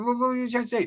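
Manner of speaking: incredulous. Retold or imitated. Bewildered in argument.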